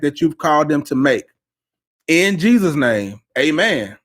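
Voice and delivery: earnest spoken prayer over listeners; preacher's blessing prayer; live prayer. Real, not acted. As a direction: bless them as you pray, steady and sincere.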